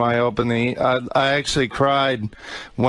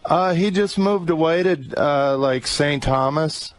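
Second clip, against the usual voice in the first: crying on the phone; 3 semitones higher than usual. Real, not acted. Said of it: "Why are you crying?".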